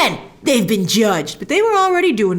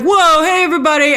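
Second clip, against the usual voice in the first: high, louder nervous greeting; flustered Steven; 6 semitones higher, 4 dB louder than usual. Retold or imitated. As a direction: blurt it out like a startled awkward guy. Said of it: "And so he's like".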